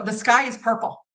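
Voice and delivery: assured, matter-of-fact declaration meant to be believed; confident. Shown as a demonstration. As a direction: state it with full confidence. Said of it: "I said it with confidence".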